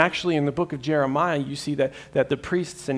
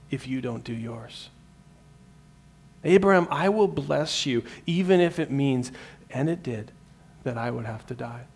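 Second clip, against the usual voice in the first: earnest divine promise; 3 dB louder than usual. Retold or imitated. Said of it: "God comes in and says".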